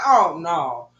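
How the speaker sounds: slow, disbelieving oh hell no; slow, exasperated hell no; drawn-out refusal. Retold or imitated. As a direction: stretch it out, fed up. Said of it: "I'm like".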